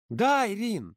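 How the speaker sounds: put-on high, loud girl's disbelief; hiccuping with laughter. A narrator's reading. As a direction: hiccup through leftover laughter. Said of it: "закивала Ксюша". (Ксюша икает от смеха)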